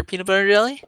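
high, sing-song teasing nickname; teasing call. Acted. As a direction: tease him with the silly name.

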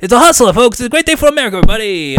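hammed-up Scottish talk-show host; Craig Ferguson. Host hypes the show, mild Scottish. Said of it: "I tried to do a Craig Ferguson voice".

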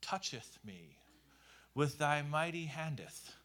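mock archaic pious prayer, lightly done; lightly hammed-up archaic prayer; mock King James prayer. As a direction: parody an old-fashioned formal prayer. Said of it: "prayers that sounded a lot like".

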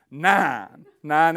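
shouted punchline; emphatic answer. Real, not acted. Preacher quizzing the crowd, loud answer. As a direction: call out the answer with glee.

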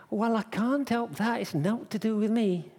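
high, protesting comeback; defensive retort. Acted. Innkeeper refusing responsibility for Mary, protesting defensively.

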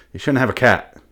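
ordinary talk, nothing marked

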